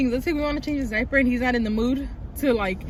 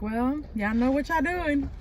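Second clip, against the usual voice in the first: mellow mom; 2 semitones higher, slower than usual. Retold or imitated. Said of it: "she's a little more mellow".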